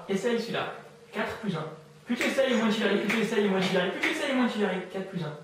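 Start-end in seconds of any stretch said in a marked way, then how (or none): 2.1-4.8 loud, high, repetitive hypnotist chant; insistent suggestion. Real, not acted. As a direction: pound the phrase to block their answer. Hypnotist talks over the subject's attempt. (répétition forte et insistante)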